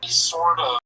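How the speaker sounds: Red Band impression. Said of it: "can you do an impression of Red Band".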